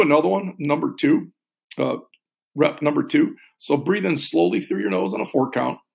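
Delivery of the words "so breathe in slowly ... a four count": calm, paced counting with long pauses; slow breath counting. Shown as a demonstration. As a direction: guide the breath gently and slowly. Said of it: "I'll talk us through one more".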